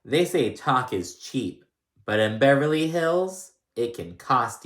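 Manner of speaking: slow, drawn-out mock-dramatic read; hammed-up slow tagline delivery; savouring each word like a trailer voice.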